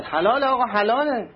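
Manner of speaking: high, loud cry of halal from a man at knifepoint; frightened shout. Retold or imitated. Shopkeeper shouting to the knife-wielding thief, loud and high. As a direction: yell it out, terrified. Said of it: "داد زد".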